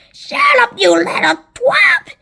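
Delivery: high, loud snap; sharp, high-pitched scolding; snapped. A narrator's reading. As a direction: snap at the boy to silence him. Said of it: "Anne Spiker snapped".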